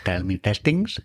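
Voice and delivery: light mock Indian accent, rising; playful Indian accent on testings. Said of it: "whole podcast in Indian accent".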